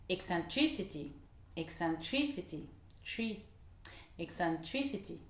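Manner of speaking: "eccentricity" with stress on TRI; English stress on TRI. Shown as a demonstration. Teacher drills English "eccentricity" for learners, stress on TRI. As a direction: isolate "tree" then say "eccentricity". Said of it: "Ou encore".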